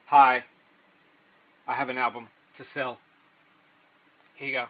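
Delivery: mock-awkward seller with long dead pauses; terrible seller demo. Shown as a demonstration. Showing viewers the full terrible experience of selling, mock-awkward. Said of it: "give you the full terrible experience".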